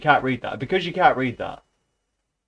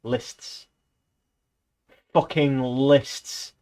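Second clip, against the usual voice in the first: exasperated; much slower than usual. Real, not acted. Complaining about Orwell.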